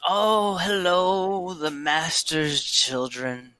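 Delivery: put-on hearty, drawn-out greeting from an old acquaintance; old drinker welcoming familiar faces; old tavern regular. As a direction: greet former students slowly and grandly. Game master plays old Flippin greeting students.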